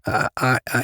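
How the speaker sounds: broken, high stammer on I; stuttering. Acted. Frankie trying to confess to Jamie, stammering high. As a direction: trip over the first word. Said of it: "he stuttered".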